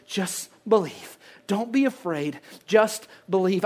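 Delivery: quiet divine reassurance; hushed reassurance. Acted. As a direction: breathe it out gently to comfort. Voice of God speaking.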